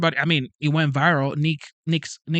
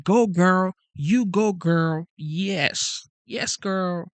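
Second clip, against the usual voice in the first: high, excited "go girl" cheer, imitating a crowd; hammed-up cheer of a crowd on its feet; mock cheering crowd; 4 semitones higher, much slower than usual. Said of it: "screaming, clapping, yelling, and saying".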